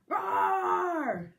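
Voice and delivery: high, loud little roar; mouse roaring back. A narrator's reading. Mouse answering boy, high loud roar. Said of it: "It roared right back".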